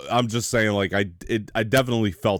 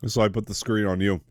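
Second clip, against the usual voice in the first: talking around an ice cube; words round a mouthful of ice; 5 semitones higher than usual. Real, not acted. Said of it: "Sorry, I'm chewing an ice cube".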